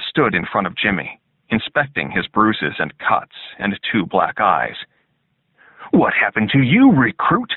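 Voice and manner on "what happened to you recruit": gruff drill sergeant. A narrator's reading. Sergeant questions recruit.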